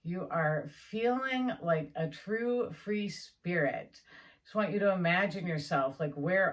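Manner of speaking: slow, drawn-out visualization voice; unhurried guided visualization with long pauses; guided imagery. Acted. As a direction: lead them gently into the picture, slowly.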